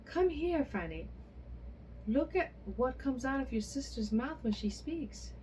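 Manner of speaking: crying out eagerly. A narrator's reading. A mother calling Fanny to come get the same gift, eager loud calls. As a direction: call the other daughter over in a rush of greed. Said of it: "cried the mother".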